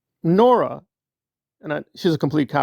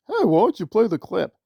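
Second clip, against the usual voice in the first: mocking Nora; 4 semitones higher than usual. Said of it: "then Nora can ask".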